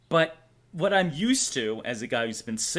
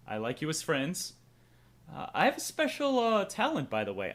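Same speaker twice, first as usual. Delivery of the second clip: ordinary delivery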